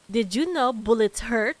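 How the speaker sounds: loud, slow mock game-character line; loud imitation of a game character; quoting Neon. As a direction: parrot her smug voice line, loud and slow. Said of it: "she goes".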